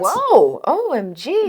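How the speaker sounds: high whoa, falling; mock shock. Joining her friend's pretend shock, pitched high. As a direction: gasp along in mock outrage.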